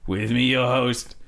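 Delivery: lightly hammed Victorian host; old gramophone. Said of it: "the first ever podcast, uh, recorded onto".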